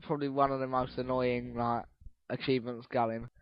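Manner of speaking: worn-out voice, fading; voice giving out. Real, not acted. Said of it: "I'm literally losing my voice".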